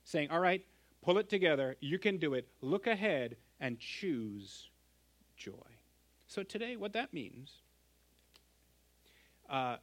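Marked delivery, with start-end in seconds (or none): 0.3-5.5 pep talk to himself. Retold or imitated. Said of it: "almost talking to himself".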